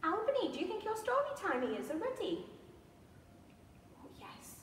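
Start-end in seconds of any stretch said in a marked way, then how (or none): 4.0-4.5 tiny whispered puppet reply; puppet mouse voice. Pretend. Albany the mouse answers the storyteller, whispered. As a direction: voice the toy mouse in a secret whisper. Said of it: "Albany says yes".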